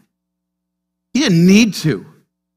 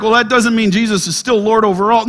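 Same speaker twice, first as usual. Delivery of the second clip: mock objection; faster than usual. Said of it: "you may look at that and be like".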